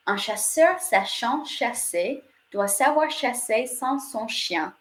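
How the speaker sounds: slow, careful French tongue twister. Shown as a demonstration. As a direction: demonstrate it slowly, sound by sound. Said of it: "try that a little bit faster".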